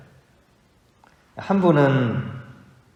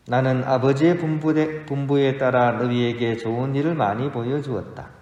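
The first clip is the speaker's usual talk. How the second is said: gospel reading. Acted. Proclaims the gospel at Mass.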